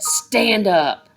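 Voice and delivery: loud harsh command; barked order. A narrator's reading. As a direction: snap it as an order. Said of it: "she barked".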